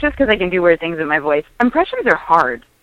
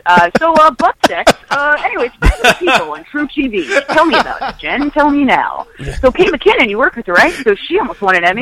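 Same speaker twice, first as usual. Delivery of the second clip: mock host; 5 semitones higher than usual. Mock talk-show host voice.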